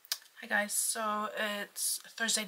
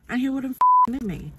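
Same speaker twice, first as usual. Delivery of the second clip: loud, higher angry rant; angry outburst; 5 semitones higher, 10 dB louder than usual. Real, not acted. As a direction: blow up about the driver. Road rage rant.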